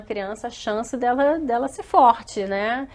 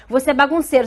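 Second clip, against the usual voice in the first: higher, louder accusing label; rótulo acusador; 4 semitones higher, 5 dB louder, faster than usual. Acted. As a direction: accuse the child, punching "bagunceiro". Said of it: "ao invés de você chegar e falar". (tom de acusação)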